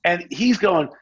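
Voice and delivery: ordinary talk, nothing marked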